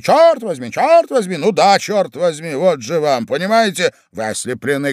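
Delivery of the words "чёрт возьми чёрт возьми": mocking imitation. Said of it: "Вы всё говорите".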